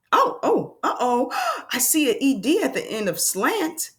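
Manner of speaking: high oh oh, uh-oh gasp; mock alarm. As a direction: play surprised for the kids. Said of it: "spots ED, gasps".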